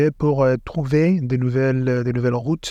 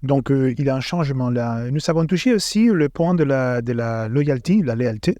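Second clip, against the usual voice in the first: French with a Spanish accent; careful French, Spanish accent; foreign accent in french. Real, not acted. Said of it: "Et ton français est bien meilleur que mon espagnol". (accent espagnol en français)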